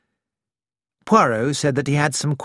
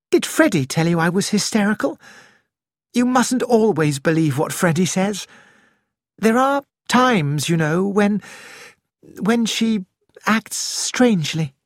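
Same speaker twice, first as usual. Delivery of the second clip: higher, quick defensive retort; Nick, sharp; 6 semitones higher than usual. Acted. Nick snapping back at Poirot, higher and quick. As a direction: bristle at the word hysterical.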